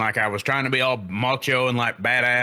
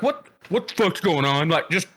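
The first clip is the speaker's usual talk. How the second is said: pissed off; 5 semitones higher than usual. Retold or imitated. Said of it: "I'm super pissed off".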